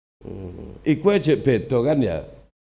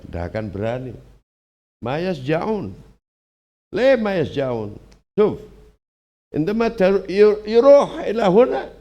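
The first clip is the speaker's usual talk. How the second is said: quoting a boastful cleric. Retold or imitated. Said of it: "itu ngomongnya gini".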